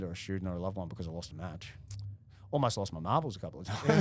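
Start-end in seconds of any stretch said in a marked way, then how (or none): 2.5-4.0 joking, louder, breaking into laughter; amused. Real, not acted. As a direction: let the joke spill into a laugh. Joking about losses, both laughing.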